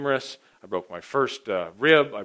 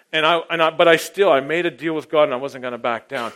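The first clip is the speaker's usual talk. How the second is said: usual speaking voice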